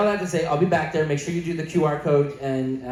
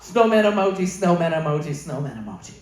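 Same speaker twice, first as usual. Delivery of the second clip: fading repetition. Retold or imitated. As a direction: let each snowman emoji fade away. Repeated emoji reply, fading out.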